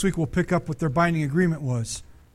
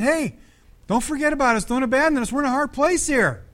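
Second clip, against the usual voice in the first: pleading people; 7 semitones higher than usual. Retold or imitated. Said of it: "They requested".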